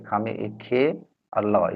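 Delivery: "खामे ए खे और ल" recited as joined syllable, then final letter; teacher demonstrating how "खामे ए खे और ल" is built; spelling-out pronunciation. Shown as a demonstration. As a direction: sound out "खामे ए खे और ल" part by part. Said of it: "इसका इस तरह से हम लोग उच्चारण करेंगे".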